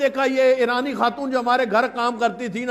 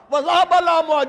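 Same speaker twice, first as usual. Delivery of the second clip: elegiac cry; 3 semitones higher than usual. Acted. Elegy of Fatima's suffering.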